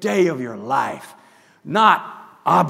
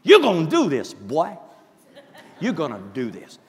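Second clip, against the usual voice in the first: drill sergeant self-talk; 4 dB louder than usual. Retold or imitated. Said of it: "and I said, like good soldiers".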